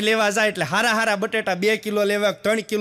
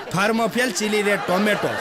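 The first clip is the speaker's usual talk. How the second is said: laughing repeat. Shown as a demonstration. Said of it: "નામ ફેરવી નાખ્યા, બોલો".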